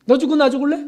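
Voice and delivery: mock explosive snap at the disciples; angry outburst. Peter snapping at disciples who touch him, angry. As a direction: snap back in sudden anger. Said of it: "막 버럭 화를 낼 수도".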